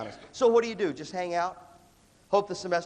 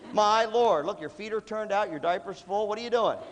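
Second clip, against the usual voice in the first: mock scolding; 4 semitones higher, 4 dB louder than usual.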